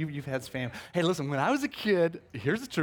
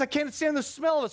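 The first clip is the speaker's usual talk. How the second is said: mock the roommate's outrage; disgusted roommate; 10 semitones higher than usual. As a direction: roommate catching him cooking Spam, high disgusted voice. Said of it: "He goes".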